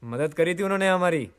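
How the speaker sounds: calling out. Acted. Still calling out to Dolly.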